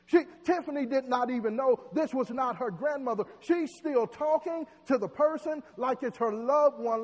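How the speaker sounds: loud, rising sermon delivery; preaching. Acted. Preacher warns church of faith being snatched away, loud preaching. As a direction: drive it home to the congregation.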